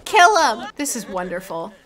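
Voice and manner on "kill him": louder cheering yell; cheering shout. Real, not acted. Gamer cheering Janine in the fight, loud yell. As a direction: egg her on with a yell.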